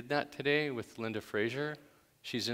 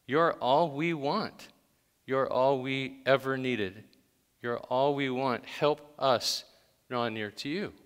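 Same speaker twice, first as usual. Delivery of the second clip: measured, drawn-out prayer; spoken prayer. Real, not acted. Congregation leader prays song words to God, slow earnest prayer. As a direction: plead simply with God, line by line.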